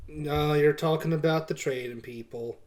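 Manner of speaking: flat, bored innkeeper; monotone voice. Acted. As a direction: drone it out without any lift. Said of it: "still with the monotone voice".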